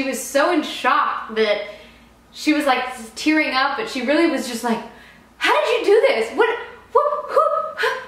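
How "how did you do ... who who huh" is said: much higher, shocked stammering questions with a laugh; stunned, excited disbelief. Retold or imitated. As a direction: gasp out the questions in happy shock. Bride in shock after proposal.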